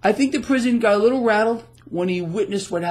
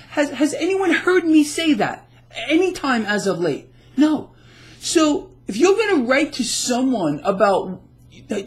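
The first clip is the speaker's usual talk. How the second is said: upset; 4 semitones higher than usual. Real, not acted. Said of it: "I'm a little bit upset here".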